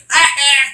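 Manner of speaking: high witch-like yelp, imitated; witchy mock scream. Retelling the wife's scream in Die Hard, witchy mock shriek. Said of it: "sounds like a freaking witch".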